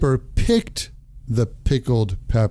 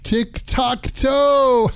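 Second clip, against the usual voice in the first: high, drawn-out delighted echo; 12 semitones higher, much slower than usual. Real, not acted. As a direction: savour the punchline with delight.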